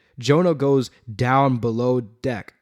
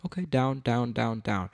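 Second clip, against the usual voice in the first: unimpressed reader ticking off words; casual skim-reading; 5 dB quieter than usual. Acted. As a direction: toss it off as if skimming. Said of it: "if you're just reading and going".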